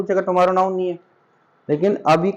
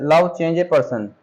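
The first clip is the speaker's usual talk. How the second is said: slow read-out; much slower than usual. Shown as a demonstration. Teacher reading the example aloud to students, slow. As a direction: read "love change a person" very slowly, word by word. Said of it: "reads example slowly".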